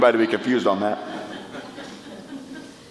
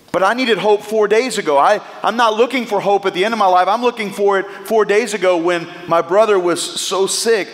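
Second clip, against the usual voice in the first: Martha's protest; 4 semitones higher than usual. Acted. Preacher voicing Martha protesting to Jesus, pained. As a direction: press Jesus with hurt urgency. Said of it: "But Jesus".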